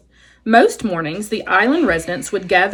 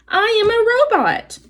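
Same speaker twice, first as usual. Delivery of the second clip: robot voice; 13 semitones higher than usual. Acted. Robot speaks to animals.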